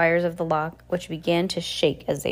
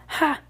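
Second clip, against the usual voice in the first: high single "Ha!" of triumph; gloating laugh; 10 semitones higher than usual. A narrator's reading. Villain gloats over the duped justice, triumphant ha. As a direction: crow one short mocking laugh.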